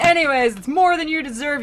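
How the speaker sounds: high, loud comic huff; mock huffy dismissal. Virgil dismissing the soul, in a mock huff. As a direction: brush them off with playful scorn.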